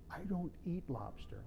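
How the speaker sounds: put-on quiet, polite retelling of the girlfriend's words; a gentle, hushed no thank you; softly polite refusal. Son's girlfriend politely refusing lobster at dinner, soft and quiet. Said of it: "she was so polite".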